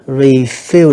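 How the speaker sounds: refill slowly with an even first syllable and weight on FILL; slow model of refill, second syllable held; level reading. Shown as a demonstration. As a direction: draw out refill for the class. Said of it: "đọc ngang".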